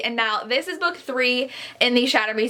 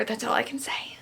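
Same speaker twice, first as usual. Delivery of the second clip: whisper; 8 dB quieter than usual. Real, not acted. Confiding aside after gushing.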